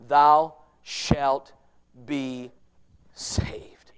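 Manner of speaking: slow, dropping down to a whispered saved; fading to a whisper. Acted. Preacher hushes the congregation on the final promise, fading to a whisper. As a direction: let the promise fall into a hush.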